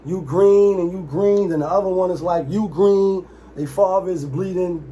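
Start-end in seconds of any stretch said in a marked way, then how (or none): 0.1-1.5 slow, louder, drawn-out Alabama twang; a lightly done Alabama drawl; mock Southern drawl. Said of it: "that drawl". 2.5-3.3 slow, louder, drawn-out Alabama twang; a lightly done Alabama drawl; mock Southern drawl. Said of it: "that drawl".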